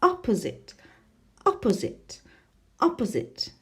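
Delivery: opposite with OP lifted and leaned on; OP-po-site, repeated as a model; teacher drilling opposite, first syllable stressed. Shown as a demonstration. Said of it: "It's the first one".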